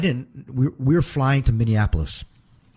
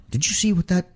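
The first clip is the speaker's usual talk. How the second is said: indignant quote; 7 semitones higher than usual. Retold or imitated. Eddie angry after stare-down.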